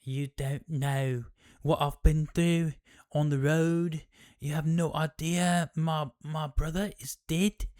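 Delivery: mock distraught wife; upset wife. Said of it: "she's like".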